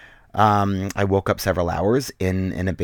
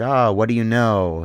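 louder, slow mock interrogation; badgering; 3 semitones higher, 6 dB louder than usual. Goon questioning a tied-up captive, mock badgering. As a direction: lean on it like a goon grilling a captive. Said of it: "started badgering me".

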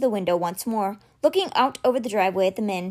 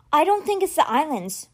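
higher, lightly called from a distance; calling out; 7 semitones higher than usual. A narrator's reading. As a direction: call it back from the gate. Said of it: "she called".

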